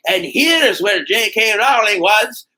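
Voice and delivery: high-pitched, badly faked Scottish tour guide; terrible Scottish accent. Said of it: "terrible Scottish accent".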